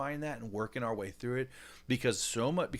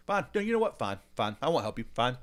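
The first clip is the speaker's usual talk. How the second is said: pouty retort; 3 dB louder than usual. Retold or imitated. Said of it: "I'm like a ten-year-old. I'm pouting".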